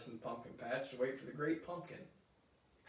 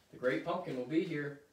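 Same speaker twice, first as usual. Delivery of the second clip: a touch louder, defending call; mild yell; 2 semitones higher, 5 dB louder than usual. Acted. Sally defending Linus against the kids, mild yell. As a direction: stand up for Linus with a mild shout. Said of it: "Sally yells, defending Linus".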